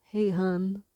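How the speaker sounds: exaggerated Baltimore "hey, hun"; playful Baltimore-accent greeting; light caricature of a Baltimore local; mock Baltimore accent. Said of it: "They don't say it like that".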